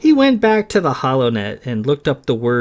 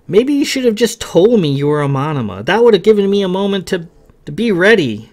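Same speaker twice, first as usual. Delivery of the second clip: put-on pleading young man; 4 semitones higher, 3 dB louder than usual. Kay calls to Sam in the dark, pleading. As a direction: call out an apology into an empty chapel.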